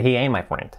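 "ain't" said "ayn", no T before "my"; T omitted. Shown as a demonstration. Teacher showing the omitted sound, "ain't" without its T. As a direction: glide from "ain't" straight into "my", dropping the T. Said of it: "prácticamente se omite siempre".

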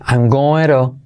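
"going to" run together, the t softened to a quick tap; linked reduced form. Shown as a demonstration. Teacher models "going to" for Spanish learners, linked and reduced. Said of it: "usted como lo sabe".

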